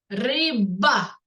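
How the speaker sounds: "риба" split before a punched б; third sound picked out. Shown as a demonstration. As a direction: break "риба" into ри-ба, hitting the б. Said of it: "звук б".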